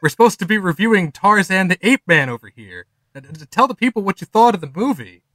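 impatient co-host. Acted. Co-host snapping him out.

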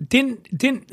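"didn't" squeezed toward one syllable, "dint"; Philly "didn't". Shown as a demonstration. Host offers another accent example, Philly pronunciation of didn't. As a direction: drop the middle d of didn't. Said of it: "didn't is one".

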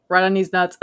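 mildly robotic, evenly pitched quote; robot imitation. Teasing a friend over how he said it, light robot imitation. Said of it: "like you were a robot".

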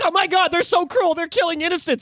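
high, whiny mock horror; mocking outrage. Mocking protesters to co-host, high whiny mock outrage. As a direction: parody gullible people gasping. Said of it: "people are like".

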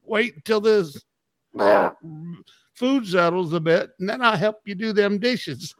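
lightly acted stuffed dinner guest; James Gregory. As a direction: imitate a comedian's folksy bit. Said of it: "when he was talking about his".

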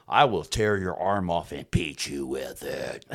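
slow, low-key menacing threat; retold threat. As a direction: lay the threat out slowly and coldly. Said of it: "Then I tell him".

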